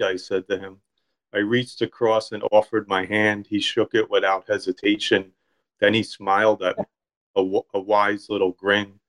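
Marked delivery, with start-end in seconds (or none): 1.3-9.0 measured, even literary narration; story reading. A narrator's reading. Author reading his deli story to a listener, story reading. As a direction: read your own short story aloud.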